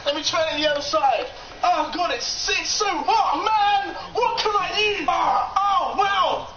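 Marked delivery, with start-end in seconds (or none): 1.6-6.5 excited. Real, not acted. Play button feels hot, then cold.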